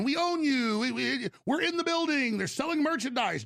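high, mocking imitation of the buyers; mock Onion boast.

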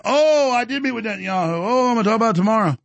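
high, fast mock of Tim; sneering impression of a rival; mocking whiny voice. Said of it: "He's like".

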